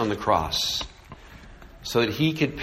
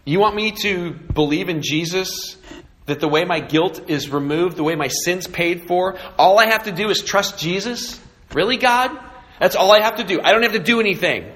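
incredulous scoffer; 4 semitones higher than usual. Retold or imitated.

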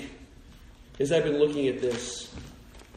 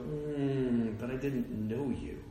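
soft divine rebuke; 3 semitones lower, 7 dB quieter, slower than usual. Retold or imitated. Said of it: "And Jesus is gonna go".

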